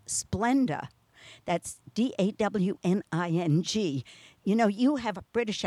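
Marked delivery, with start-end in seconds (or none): 1.9-4.0 spelled letter by letter. Shown as a demonstration. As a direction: spell D A W N I N G out, each letter separate. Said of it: "I better spell that word".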